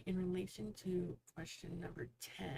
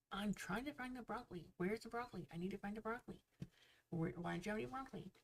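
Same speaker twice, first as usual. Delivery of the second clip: a lightly voiced insistent lady, pitched higher; pushy lady; 4 semitones higher, faster than usual. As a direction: nag for the broccoli as the impatient customer. Joke lady pestering the worker.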